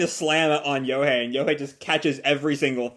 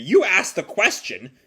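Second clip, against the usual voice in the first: high, indignant yell at his father; hammed-up angry outburst; mock yell; 7 semitones higher than usual. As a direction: protest that he asked first. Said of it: "Nagi yells at Yohei".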